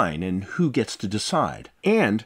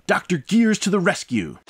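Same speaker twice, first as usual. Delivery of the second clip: mock heroic announcement; 6 semitones higher than usual. Hyping a heroic name, mockingly.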